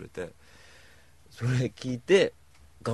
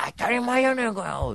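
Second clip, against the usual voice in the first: camp friend voice; 13 semitones higher, 3 dB louder than usual. Retold or imitated. Voicing friend うーちゃん.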